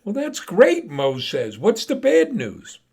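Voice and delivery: put-on high old man voice.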